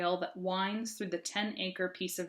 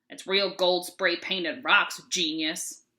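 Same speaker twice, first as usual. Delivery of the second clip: slow, sneering mock Philadelphia accent; a lightly voiced grumpy Philadelphia accent; mean Philadelphia accent; 2 semitones lower, 3 dB louder, slower than usual. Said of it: "in a mean-sounding Philadelphia accent".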